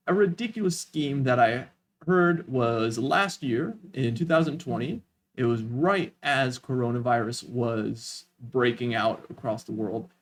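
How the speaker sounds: measured storytelling, broken by clear pauses; deliberate pausing. Shown as a demonstration. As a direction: pause after "scheme that I heard" and "but". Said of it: "Notice as I talk, my pausing".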